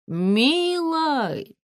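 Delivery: high, drawn-out sugary "Милый"; mock-tender. A narrator's reading. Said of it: "душевно сказал ему подполковник". (слащаво-ласково)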